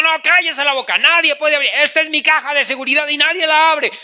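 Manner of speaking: quick, hammed-up scolding; mock angry outburst. Husband silencing his wife over the safe, mock angry. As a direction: shut them down in a rush.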